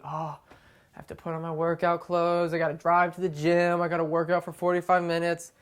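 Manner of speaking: mild mock grumbling, level pitch; lightly acted weary moan about a chore; complaining. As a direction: drag the first words out in mock complaint. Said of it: "and they're complaining".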